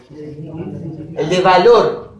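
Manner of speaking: El de valor drawn out slowly; slow answer. Shown as a demonstration. Teacher giving the answer, very slow. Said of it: "teacher answering own question".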